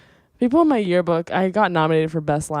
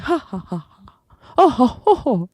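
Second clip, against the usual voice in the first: mock laugh; 5 semitones higher than usual. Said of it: "Like, someone like".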